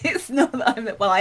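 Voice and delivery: laughing admission. Real, not acted. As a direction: confess it while laughing. Admits laziness laughing.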